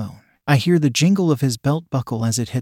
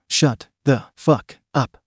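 slow snarl; slower than usual. A narrator's reading. Narrator snarling at the cocky coworker, slow and menacing. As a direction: drag each word out in a snarl. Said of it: "I snarled at him".

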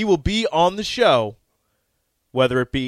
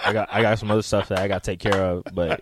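Jay Foreman impression; 7 semitones lower than usual. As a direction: mumble excuses like a busy friend. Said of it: "That's Jay Foreman".

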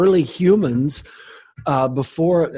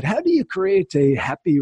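higher-pitched, badly faked Australian accent; 5 semitones higher than usual. Guest quotes magazine interviewer, bad Australian accent. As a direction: attempt a clumsy Australian accent. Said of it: "that's my worst Australian accent".

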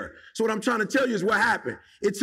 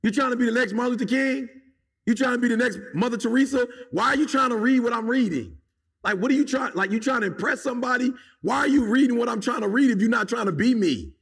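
higher and quicker, teasing imitation of people prying; mocking nosy followers; 3 semitones higher than usual. To listeners who copy his reading, a fast mocking imitation. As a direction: rattle off the nosy questions, mock-incredulous. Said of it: "y'all be coming up to me like".

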